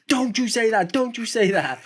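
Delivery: a hint of a stern father; stern dad. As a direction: scold it like a father. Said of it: "I went".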